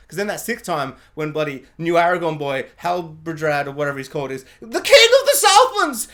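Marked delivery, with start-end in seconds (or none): 4.6-6.1 high, loud, slow heroic announcement with a laugh; hammed-up royal fanfare shout; mock grand proclamation. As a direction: bellow it like a pompous herald. Mocking Halbrand's grand announcement.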